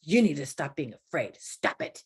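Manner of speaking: stern put-on telling-off; mock scolding. Preacher acting how God doesn't answer fear, mock scolding. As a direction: scold in a changed voice, mock-strict. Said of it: "he doesn't go".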